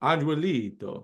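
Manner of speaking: Angelito slowly tried as "An-weh-LEE-to"; attempted Spanish pronunciation. Real, not acted. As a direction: have a halting go at Spanish Angelito, the g softened to w. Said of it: "not gonna be able to say it".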